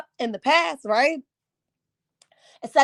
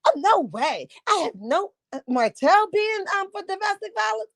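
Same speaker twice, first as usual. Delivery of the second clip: mock disbelief; 5 semitones higher than usual. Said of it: "Tasha's sitting there like".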